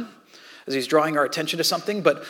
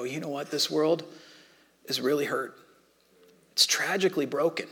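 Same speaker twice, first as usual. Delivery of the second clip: soft realization; 5 dB quieter than usual. Acted. Voicing someone seeing the world.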